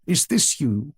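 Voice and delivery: softened grandmotherly appeal; tender. A narrator's reading. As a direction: ask the child tenderly, without harshness. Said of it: "in a voice tender rather than harsh".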